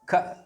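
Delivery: ख as a brief burst with no held vowel; short consonant. Shown as a demonstration. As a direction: keep ख very short. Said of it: "अब तो ये ख है". (बिना स्वर का छोटा ख)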